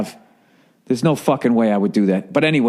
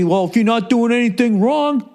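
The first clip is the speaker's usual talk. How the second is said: mock reasonable tone; 10 semitones higher than usual. Mocking surveillance defenders.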